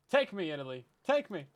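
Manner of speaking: pleading in a hammed-up Italian accent; bad Italian accent. Begging Italy to take them in, bad Italian accent. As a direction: beg theatrically with a fake Italian accent. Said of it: "my bad Italian accent".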